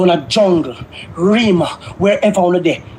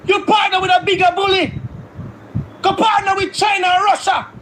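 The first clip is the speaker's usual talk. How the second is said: heated shout; 5 semitones higher than usual. Real, not acted. Heated rant.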